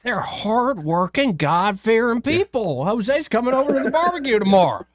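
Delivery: layered-on Southern drawl, stretched out slow; hammed-up Southern accent from a comedy skit; thick Southern accent. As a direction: exaggerate a slow Southern accent, drawing out the key words. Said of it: "really layered on thick Southern accent".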